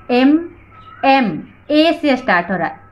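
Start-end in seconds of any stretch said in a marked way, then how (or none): 0.1-1.4 "एम" said alone, opening on a clear "eh"; letter-sound demo. Shown as a demonstration. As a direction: isolate "एम" so the first vowel stands out. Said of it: "एम का pronunciation सुनिए क्या है". ("एम" का शुरुआती स्वर साफ़ सुनाना)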